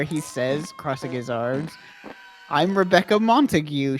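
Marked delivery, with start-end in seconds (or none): 2.5-4.0 put-on English accent. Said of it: "she says in an English accent".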